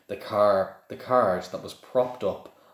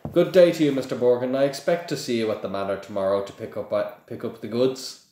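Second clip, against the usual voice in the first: louder, high lordly farewell; haughty farewell; 4 semitones higher, 4 dB louder, faster than usual. Acted. Aristocrat leaving the shop, grand and dismissive. Malfoy's parting words.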